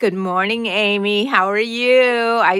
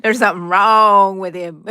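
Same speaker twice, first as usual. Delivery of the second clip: louder teasing repeat; 7 dB louder than usual. Real, not acted. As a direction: say it out loud teasingly. Host repeats sidekick loudly.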